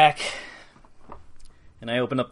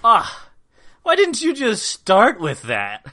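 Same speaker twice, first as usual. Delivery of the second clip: 1 exasperated outburst; 10 semitones higher, 8 dB louder, slower than usual. Acted. Exasperated at captive.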